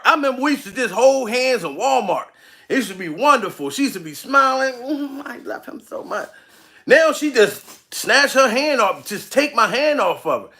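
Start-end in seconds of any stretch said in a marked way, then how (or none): 4.8-6.3 soft, hushed lovestruck whisper; mock dreamy sigh. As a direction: breathe it like a smitten girlfriend. Mimicking fiancée's past adoration.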